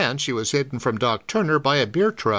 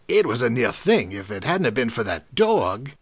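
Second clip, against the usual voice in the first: 1 shaken truck driver; 4 semitones lower than usual. A narrator's reading. Driver voiced lower.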